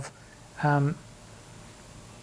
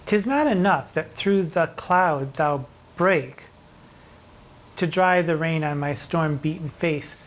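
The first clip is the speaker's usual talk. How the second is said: slow poem recital. Acted. Teacher reciting a sonnet to students, slow and measured. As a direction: read the verse slowly and deliberately, each word weighed.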